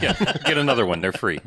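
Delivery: laughing through the words; chuckling repeat of the joke; real laugh riding the line; laughing echo. Real, not acted. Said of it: "laughing echo of the quote".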